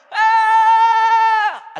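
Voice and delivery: huge high sung shout; battle cry shout. Acted. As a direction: let out a massive war cry. War shout of Israelites.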